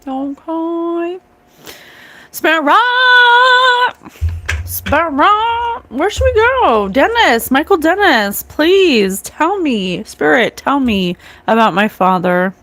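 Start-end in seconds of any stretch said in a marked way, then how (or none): 2.3-12.5 raised, higher voice calling out; calling out to a spirit. Real, not acted. Vlogger calls out to the spirit about her father, raised and pleading.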